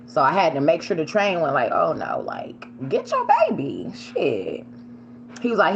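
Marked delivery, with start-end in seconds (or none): 1.7-4.7 retold panic. Panicked as train nears dog.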